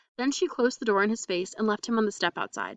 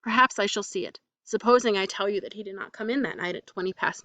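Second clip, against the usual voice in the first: vehement. Acted. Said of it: "continued vehemently".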